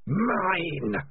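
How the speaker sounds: long drawn-out, high sinister word; eerie voice inside someone's head. A narrator's reading. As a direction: stretch it out, sliding down from high. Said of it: "said a voice in Morris's head".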